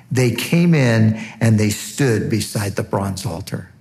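preacher reading God's words aloud; scripture reading. Acted. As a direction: proclaim the passage to the congregation.

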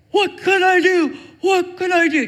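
high, loud frantic cry; panicked squeal. Retold or imitated. Coworker Jay panicking as the stalker grabs her, squealing. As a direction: squeal it helplessly.

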